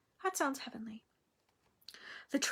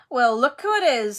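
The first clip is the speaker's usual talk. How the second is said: put-on louder, lazily sneering boy; a sneering schoolboy drawl; lazy drawl; 7 dB louder than usual. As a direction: greet enemies with lazy contempt. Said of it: "in his usual lazy drawl".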